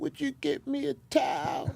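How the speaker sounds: put-on whispered, slow, breathy elderly woman's voice. Retelling what a seventy-three-year-old said: imitating an elderly woman. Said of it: "when she's seventy-three years old, she said".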